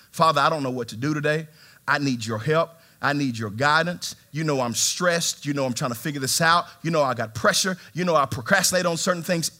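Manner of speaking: prayer. Retold or imitated. Preacher praying alone to the Father, pleading.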